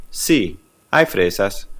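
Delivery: slow, careful Spanish "Sí, hay fresas" with "hay" said like "eye"; Spanish answer. Shown as a demonstration. Teacher modelling a yes answer, slow and clear. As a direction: spell out "Sí, hay fresas" slowly for learners. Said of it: "put the word sí before it".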